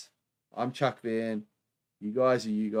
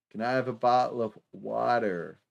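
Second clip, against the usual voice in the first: bad American accent. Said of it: "terrible, terrible, uh, American accent there".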